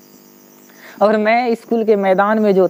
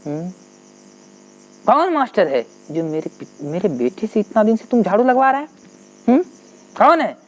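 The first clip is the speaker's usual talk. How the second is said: angry shout; 3 semitones higher, faster than usual. Retold or imitated. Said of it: "चीखने लगे मेरे पिताजी गुस्से में".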